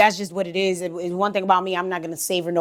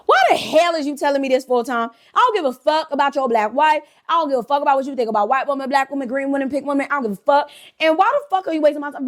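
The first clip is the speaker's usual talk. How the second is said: higher-pitched, mock-indignant tirade; exasperated rant; 5 semitones higher than usual. Woman silently fed up with his story, exasperated rant. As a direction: rattle off an exasperated inner rant. Inner rant at Tom, acted.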